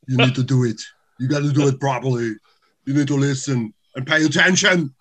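lightly put-on Austrian accent; Arnold Schwarzenegger impression. Guest explaining how he learned the impression, in an Austrian accent. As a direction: tell it as an Austrian action star. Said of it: "blown by the Arnie impersonation".

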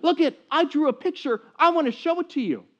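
put-on high, bright little-girl voice calling Daddy; excited little girl. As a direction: play a four-year-old bursting in. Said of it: "she bursts in the room and she says".

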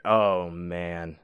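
low, subdued, mildly ashamed quote; embarrassed. Retold or imitated. Friend seeing the pissy bed, mildly embarrassed. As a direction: imitate a friend's sheepish dismay. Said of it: "he really was embarrassed".

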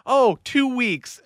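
high, drawn-out imitation of a girlfriend's answer; slow it right down, up high, imitating her; blurted cheery answer. Girlfriend blurts an answer to the old driver, mock high voice.

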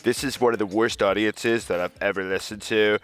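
mock caller's put-on voice, barely shifted; hint of Trump. Cohost plays caller insulting the reporter, lightly mocking. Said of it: "my voice is starting to change".

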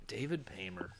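very soft, whispered name; hushed whisper. Pretend. Announcing the actor as he appears on screen, whispered. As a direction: whisper the name in mock awe.

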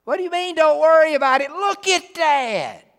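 high, loud disbelieving cry, slowing at the end; mock panicked Israelite facing the army; incredulous Israelite. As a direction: play the shocked doubter staring at the enemy. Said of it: "looked at Moses and said".

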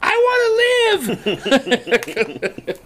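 put-on high, slow, drawn-out child's wail; mock desperate child's plea; imitating a kid yelling. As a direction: stretch it out like a dramatic little kid. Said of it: "one of my kids always yells".

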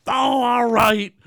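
high, slow reluctant give-in; lightly voiced Homer giving in; caving Homer. Homer gives in to the sad dog, in a slow high sigh. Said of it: "And he's like".

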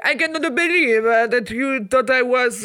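put-on French accent. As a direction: put on a mild French accent for an Italian man. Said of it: "wait, I'm still doing a French accent".

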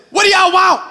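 high, loud creepy voice from the dark; sudden loud spooky call; eerie figure. Retold or imitated. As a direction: boom it out like a spooky stranger. Scary figure in trailer speaks.

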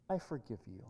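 very soft, low and restrained; quiet forgiveness. Acted. Older woman forgives her wrongdoer, hushed and low. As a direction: offer it gently, barely raising the voice.

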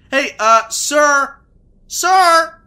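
loud, rising call into the dark. Acted. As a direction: shout for the hidden host. Calling out to unseen host.

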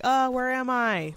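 a hint of a lost resident asking where she is; confused resident. Confused resident wakes asking caregiver where she is, lightly voiced. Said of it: "be like".

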